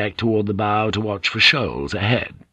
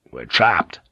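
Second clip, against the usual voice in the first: grim realization; 5 semitones lower than usual. Acted. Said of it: "he said out loud".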